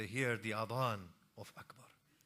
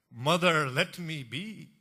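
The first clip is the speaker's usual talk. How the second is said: pleading son; 5 semitones higher, 10 dB louder, slower than usual. Acted. Akbar pleading with mother.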